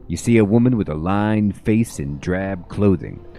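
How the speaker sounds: steady storyteller read of the scene; game text narration. A narrator's reading. Reading the game's description of Radine to the viewers, storyteller style.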